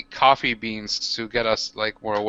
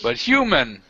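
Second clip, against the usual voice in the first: orc voice; 3 semitones higher than usual. Acted. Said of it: "I'm saying".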